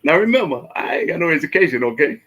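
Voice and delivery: laughing through the words; cracking up at himself. Real, not acted. Laughs at own story.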